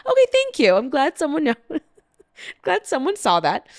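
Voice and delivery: sudden thanks to the one ally; relieved gratitude. Retold or imitated. Thanking the girl in line who took their side, relieved. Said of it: "And I was like".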